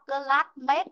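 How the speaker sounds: "classmate" with short "e" at the end, "klat-met"; mispronunciation. Shown as a demonstration. Teacher tells class we don't read it so, mispronunciation. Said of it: "Chúng ta không đọc".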